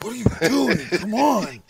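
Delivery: a hint of a mopey teen character; Napoleon Dynamite. Host shows how he talks to himself alone, lightly voiced. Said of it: "Napoleon Dynamite vibe".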